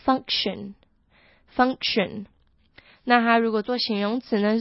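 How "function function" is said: function stretched out very slowly, the c sound light but present; very slow demo. Shown as a demonstration. Teacher models function for learners, very slowly. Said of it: "这个C要记得发出来，可是轻轻地带过去".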